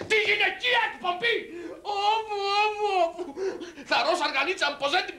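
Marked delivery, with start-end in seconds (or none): 0.1-1.4 high-pitched comic dismay; raised, incredulous echo of the title; mock dismay. Repeats the show title, aghast. 2.1-3.2 high mock lament; high, tearful moaning for laughs; comic wailing. Comic lament over the show.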